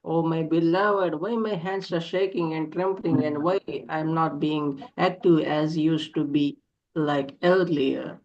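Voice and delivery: lyrical, longing poem reading; yearning poem recitation. Acted. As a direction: recite it like a lament to a lost love. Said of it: "can we call upon you to read a poem".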